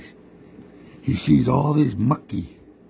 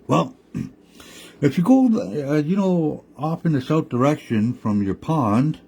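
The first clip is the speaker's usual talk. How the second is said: higher, coaxing trickster voice; lightly raised sly coyote explaining; scheming Coyote; 5 semitones higher than usual. Acted. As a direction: lure them up the hill. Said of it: "Coyote said".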